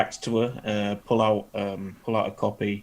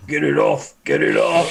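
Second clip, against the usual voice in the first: loud, raised-pitch yell; shouting; 5 semitones higher, 8 dB louder than usual. Acted. Orc player reacts to being hugged, shouting. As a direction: shout it out in mock alarm. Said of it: "Billy Bob's gonna shout".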